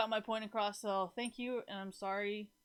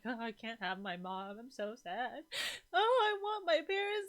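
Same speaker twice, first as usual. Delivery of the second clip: drawn-out whine, swelling at the end; tearful child retold; slower than usual. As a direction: act out a homesick kid starting to cry. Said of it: "I used to cry all the time".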